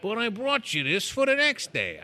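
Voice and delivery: mock apologetic employee. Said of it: "I don't know if you talk like that".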